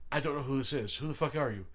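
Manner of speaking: understated puzzled aside; retold inner thought. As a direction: say it privately, like a baffled inner voice. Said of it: "in my mind, I'm going".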